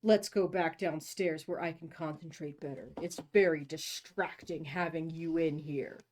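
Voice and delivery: low, measured novel reading; story narration. A narrator's reading. Host reading a romance novel to co-host, story narration. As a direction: read it low, in the brooding narrator's part.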